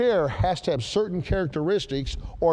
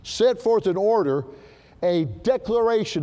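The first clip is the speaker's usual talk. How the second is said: "Set forth in order" raised and stressed; emphatic reading; 4 semitones higher than usual. Shown as a demonstration. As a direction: press each word of "Set forth in order". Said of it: "read it with some emphasis".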